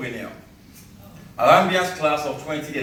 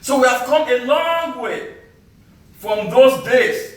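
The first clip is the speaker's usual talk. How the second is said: measured spoken-word delivery with deliberate pauses; poem recital; 4 semitones higher than usual. Acted. Poet to summit crowd recalling the long trek, declaimed poem recital. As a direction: declaim it line by line to an audience.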